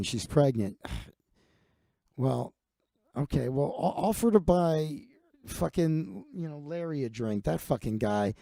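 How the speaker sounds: a weary boss reading a complaint; bar owner Jerry. Retold or imitated. The owner Jerry calls Big Mike, low and droning. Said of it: "The owner".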